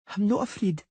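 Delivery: lightly voiced girl mumbling through a cold; a hint of a girl with a cold mumbling; mumbled, with a cold. A narrator's reading. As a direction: mumble it, stuffy and unsure. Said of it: "she mumbled indistinctly".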